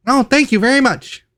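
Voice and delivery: high-pitched kobold voice. Acted. Kobold thanking the guests for silver, high-pitched. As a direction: gush thanks in a high little voice. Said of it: "this was a kobold".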